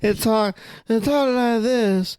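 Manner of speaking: very high, slow Southern drawl; Truman Capote. Acted. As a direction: badly imitate a thick, high Southern accent. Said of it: "very thick Southern drawl".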